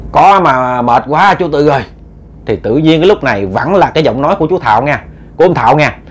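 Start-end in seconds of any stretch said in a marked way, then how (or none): 0.1-1.8 slowed, weary reply; very tired voice. Acted. Thảo answers the uncles at his door, weary. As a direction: answer as if worn out, mildly drained. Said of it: "mà cái giọng mệt mỏi lắm".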